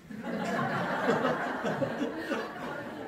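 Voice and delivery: breathy real laugh. Real, not acted. Pastor laughing at his own Gangwon imitation. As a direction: laugh at the joke.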